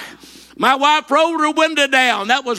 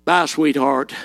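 farewell to the bill; 10 semitones lower, slower than usual. Retold or imitated. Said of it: "I probably thought it".

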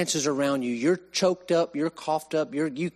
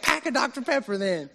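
high-pitched comeback from a drill instructor; mock yell, pitched up for the punchline; imitated yelling; 10 semitones higher than usual. Drill instructor changing his bribe for the recruit, high mock yell. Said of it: "he's in my face yelling".

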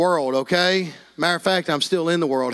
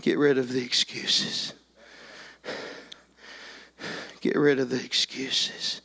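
softly appeal, letting each phrase settle; altar call; 2 semitones lower, 4 dB quieter than usual. Real, not acted. Preacher calling parents forward to the piano, hushed appeal.

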